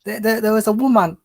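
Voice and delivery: put-on Jamaican accent. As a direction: tell it in a hint of Jamaican accent. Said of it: "So you want me to do a Jamaican accent?".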